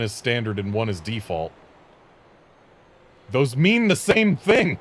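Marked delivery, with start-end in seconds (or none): 3.3-4.8 exasperated. Real, not acted. Mock outrage at terms.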